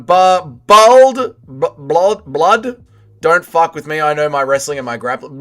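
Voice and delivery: attempted British impression, lightly put on; MMA Guru. Streamer attempts requested impression of a trash-talker, lightly put-on British voice. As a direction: try out a tough-talking British accent, a bit hesitant. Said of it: "an M M A Guru impression".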